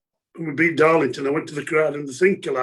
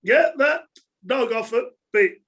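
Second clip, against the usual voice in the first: raised-pitch mock terrace yell; retold fan shout; 6 semitones higher than usual. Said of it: "the Barnsley fan shouted".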